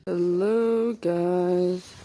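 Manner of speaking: big bright hello to viewers; loud vlog greeting. Real, not acted.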